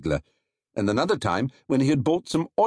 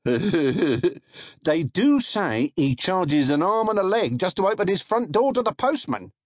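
a hint of a wry stallholder; gossiping trader; 9 semitones higher than usual. A narrator's reading. Narrator voices trader.

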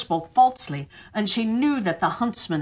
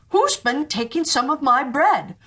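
higher, lightly voiced dwarf; a higher, indignant little dwarf; third dwarf; 6 semitones higher than usual. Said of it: "And the third".

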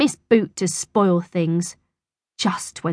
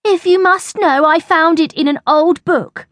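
put-on boy voice; 11 semitones higher, 5 dB louder than usual. Nick voiced in story.

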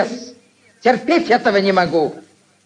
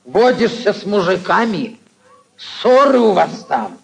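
couple bickering. Acted. Aunt reproaches nephew.

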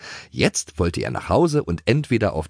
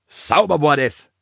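high, pleased exclamation; delighted; 8 semitones higher, 4 dB louder than usual. A narrator's reading. Toni after the gallop, delighted. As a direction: crow over a successful prank. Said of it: "freute sich Toni".

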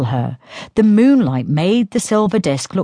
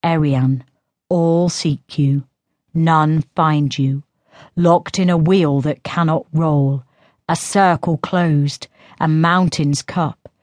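reading a verse. A narrator's reading. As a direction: read the spell like a poem.

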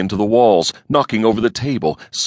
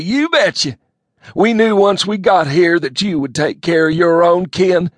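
a folksy hick rambling on; 13 semitones higher, 6 dB louder than usual. A narrator's reading. Elmo telling his cousin the news in a loud bumpkin voice.

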